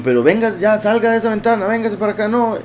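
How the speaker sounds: imitating a pleading relative in a high voice; high-pitched mock urging to come away; put-on high voice, coaxing someone over; exasperated relative. Acting relatives' plea at the window.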